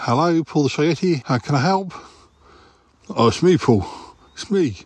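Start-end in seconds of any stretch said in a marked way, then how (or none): 0.1-1.9 bright polished phone greeting; receptionist voice. Acted. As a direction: answer like a chirpy front desk. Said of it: "You sound like you're, uh, a receptionist somewhere".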